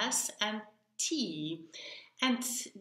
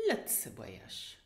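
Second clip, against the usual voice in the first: Lützeburgisch whispered softly, much lower; whispered teacher model of Lützeburgisch; 10 semitones lower, 8 dB quieter than usual. Shown as a demonstration. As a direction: breathe Lützeburgisch as a quiet whisper. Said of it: "Let's repeat again".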